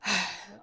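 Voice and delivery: weary sigh. Acted. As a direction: let out a tired sigh. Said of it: "they sighed".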